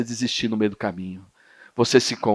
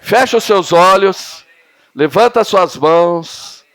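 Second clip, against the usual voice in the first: leading worship; 4 semitones higher, 6 dB louder, slower than usual. Real, not acted. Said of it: "leads worship, slow and loud".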